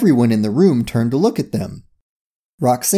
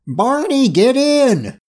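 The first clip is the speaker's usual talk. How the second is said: yelled order; 12 semitones higher, slower than usual. A narrator's reading. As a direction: yell to a partner in a hurry. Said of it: "he yelled".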